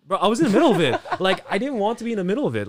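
loud laughing disbelief. Real, not acted. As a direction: laugh through the words. Laughing while retelling the fight.

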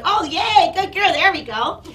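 high, loud cheering; gleeful, exaggerated congratulation; over-praise. Real, not acted. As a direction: reward the dog with your voice. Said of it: "purposely trying to over-reward or over-praise".

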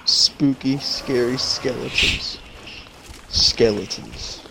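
slow, drawn-out spooky tone. Pretend. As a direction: stretch each word like a haunted house. Joking about a scary ghost.

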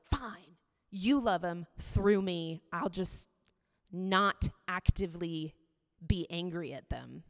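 slow, resigned "fine, you do it"; grudging surrender. Retold or imitated. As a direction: give in slowly and begrudgingly. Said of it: "I was like".

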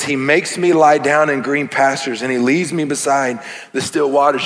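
scripture reading. Shown as a demonstration. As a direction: read it savoring each word. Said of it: "Then he says".

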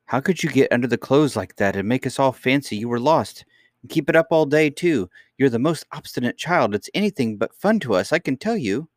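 high-pitched exasperated telling-off; worked-up nursemaid's reproach; scolding nurse. Acted. Nurse scolds the missing princess.

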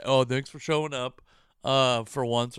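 mocking sarcasm. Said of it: "someone will say".

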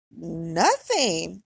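amused, lilting brush-off; smirking. Retold or imitated. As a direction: play it innocent through a smirk. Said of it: "I got this smirk on my face".

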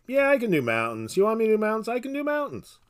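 put-on light Jewish accent, rising pitch; a hint of a Jewish accent, shrugging. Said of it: "God talking in a Jewish accent".

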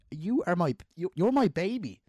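high and loud, hammed-up clinging parent; mock doting wail. Parent looking at his ten-year-old son, high doting wail. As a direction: wail it like a parent who can't let go. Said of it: "looking at him going".

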